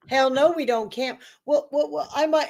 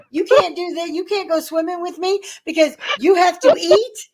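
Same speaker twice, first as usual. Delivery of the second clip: mock-outraged, pitched up into questions; retold indignation, higher and incredulous; indignant scolding; 5 semitones higher than usual. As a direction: scold him in disbelief, voice lifting.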